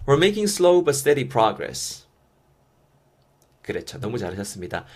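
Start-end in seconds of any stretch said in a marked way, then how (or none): 0.1-2.1 very slow, every syllable laid out; slow model reading. Shown as a demonstration. English teacher modeling the phrase for learners, very slow. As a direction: model it slowly for students to copy. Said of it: "한 번 더".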